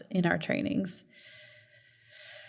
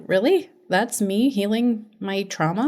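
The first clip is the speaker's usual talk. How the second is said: skeptical. Acted. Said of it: "are so skeptical".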